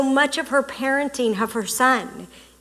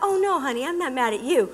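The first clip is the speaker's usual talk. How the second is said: soft reassurance; 5 dB quieter, faster than usual. Retold or imitated. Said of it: "it would've gone".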